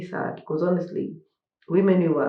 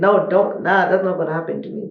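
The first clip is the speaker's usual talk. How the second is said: assertive, firm delivery. Showing how women speak up today: imitating a firm refusal. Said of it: "we speak like this".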